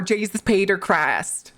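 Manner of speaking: hammed-up Midwest twang; Midwest accent. Shown as a demonstration. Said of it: "shitty Midwest accent".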